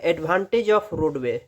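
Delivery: advantage of roadway drawn out word by word; very slow heading read; slow dictation. Shown as a demonstration.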